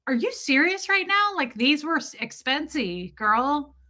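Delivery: high, incredulous sass; outraged disbelief, high-pitched; indignant. Retold or imitated. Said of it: "I was like".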